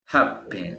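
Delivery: "Happen" stressed on HAP; HAP-pen, the ending lighter; first-syllable stress. Shown as a demonstration. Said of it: "En la primera sílaba".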